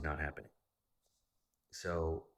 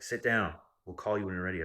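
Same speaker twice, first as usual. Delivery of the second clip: retold yell; 2 semitones higher, 6 dB louder than usual. New York clerks yelling.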